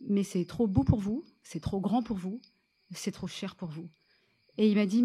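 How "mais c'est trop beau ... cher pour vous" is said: slow, measured retold tease; slow teasing bluff. Writer bluffing the big producer with no story, slow and measured. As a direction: draw out each refusal to build intrigue.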